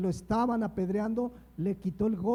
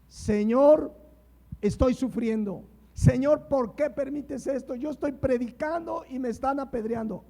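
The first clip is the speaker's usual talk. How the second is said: mock complaining prayer; 4 semitones higher than usual. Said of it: "¿Ven un enojo, una tristeza?".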